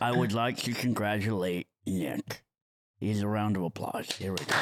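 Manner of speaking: low, dopey henchman voice; goon voice. Acted. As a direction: play a dim, lumbering goon. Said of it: "I'm gonna do it in the goon voice".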